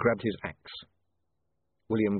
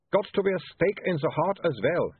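vampire voice; 8 semitones higher than usual. Acted. Vampire speaks.

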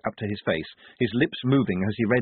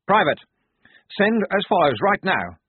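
croaking; 10 semitones higher, 6 dB louder than usual. A narrator's reading. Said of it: "Blouse croaked".

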